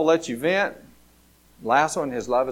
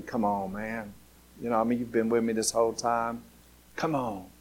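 softer, coaxing father pleading with his son; gentle reasoning; 3 semitones lower, 5 dB quieter than usual. Acted. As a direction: talk him round quietly. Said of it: "He tried to reason with him".

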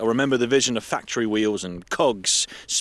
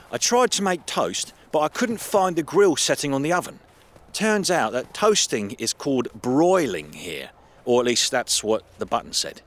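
higher amused storytelling voice; the speaker, amused; 5 semitones higher than usual. Acted. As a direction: tell it with amused excitement. The speaker tells toast story.

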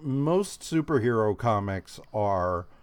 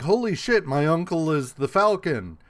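shocked; 4 semitones higher than usual. Retold or imitated. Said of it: "Jim is like".

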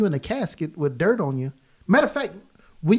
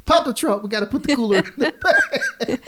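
mock cop order; 10 semitones higher, 4 dB louder, faster than usual. Imagined cop at the car.

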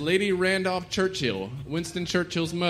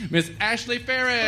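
announcer voice; 5 semitones higher than usual. Real, not acted. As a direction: call the name like a game show host. Host announcing contestant.

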